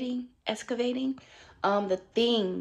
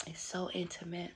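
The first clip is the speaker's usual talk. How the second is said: soft; 13 dB quieter than usual. Real, not acted. Moved, very soft.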